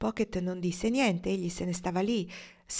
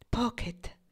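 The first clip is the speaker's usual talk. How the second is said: full of wonder; 5 semitones higher than usual. Acted. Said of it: "con voce piena di meraviglia".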